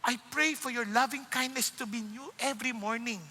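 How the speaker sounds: hushed, humble plea to the Lord; quiet morning prayer; soft prayer. Shown as a demonstration. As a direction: pray it softly, almost to yourself. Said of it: "you need to ask".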